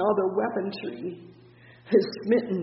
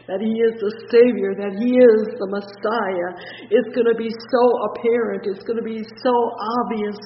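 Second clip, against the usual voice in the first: louder proclaiming, building; preaching at full force; 2 semitones higher, 8 dB louder than usual. Real, not acted. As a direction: declare each title with force.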